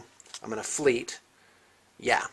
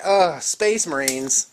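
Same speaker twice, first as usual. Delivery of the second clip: weary groan; 2 semitones higher, 4 dB louder, much slower than usual. Retold or imitated. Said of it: "now it's like".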